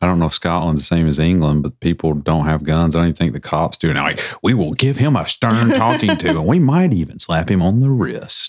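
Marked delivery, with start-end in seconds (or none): 4.4-8.5 lightly acted stern British cop, without the accent; mock-stern, deliberate officer voice; mock polite police. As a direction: play a toothless officer giving a warning. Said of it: "they would say it in an accent".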